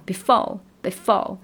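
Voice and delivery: drawn-out, swaggering before; a bit swaggering. Shown as a demonstration. Teacher shows a proud swaggering before. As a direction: strut the word before with pride. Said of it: "就稍微张狂一点".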